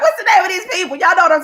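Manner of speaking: words pushed out between real laughs, pitch up; can't stop laughing mid-question; laughing through it. Real, not acted. Laughing to her viewers while hunting for the word.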